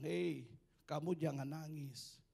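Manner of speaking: put-on gentle old dog. Old dog comforts puppy.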